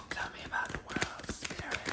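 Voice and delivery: hushed whisper to the cards. Real, not acted. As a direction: coax it out in a soft whisper. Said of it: "Let me lower my tone".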